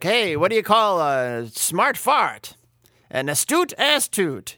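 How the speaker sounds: mock stand-up setup and punch; Catskills one-liner. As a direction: land the punchline like a borscht-belt comic. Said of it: "being kinda Catskills".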